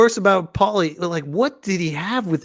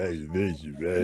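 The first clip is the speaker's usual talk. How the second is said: Paulie impression; 10 semitones lower, 11 dB quieter than usual. Echoing Paulie's line from clip.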